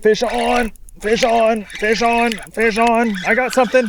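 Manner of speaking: high, loud shouting; excited shout. Real, not acted. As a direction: shout it across the water. Hooking a fish, shouting.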